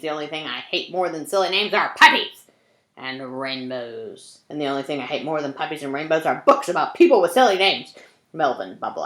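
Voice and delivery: a touch of a hammed-up grouch, loud on the name; grumpy mean man. Meanest man rants about silly names, mock grumpy.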